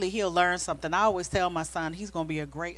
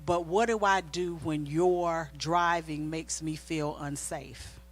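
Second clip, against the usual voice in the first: slow gentle question; 3 semitones lower, 5 dB quieter, slower than usual. Retold or imitated. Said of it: "I heard the Holy Spirit say".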